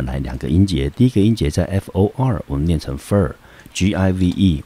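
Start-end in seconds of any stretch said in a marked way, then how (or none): 2.5-4.6 fur spelled out slowly, G I V E letter by letter; syllable by syllable. Shown as a demonstration.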